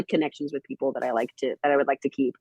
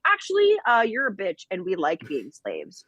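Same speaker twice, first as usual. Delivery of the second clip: mocking character voice; 3 semitones higher than usual. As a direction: sneer it like a smug character. Voicing the slaves in the book.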